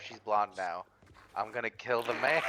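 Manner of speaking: low dramatic voice. Retold or imitated. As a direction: say it low like a hammy hero. Voicing Carlos, low.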